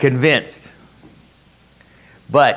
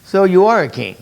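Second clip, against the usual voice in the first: sarcastic; 2 semitones higher than usual. Retold or imitated. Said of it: "that's a sarcastic note, isn't it?".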